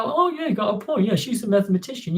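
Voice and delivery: high mimicked agreement, easing down; imagined viewers. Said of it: "plenty of people might go".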